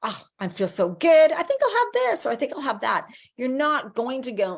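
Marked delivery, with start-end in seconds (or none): 0.0-3.1 bright, bubbly quote of a thriving self; happy energized self. Pretend. Viewer voicing feel-good choices, excited and upbeat. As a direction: gush about feeling great. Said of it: "You're like".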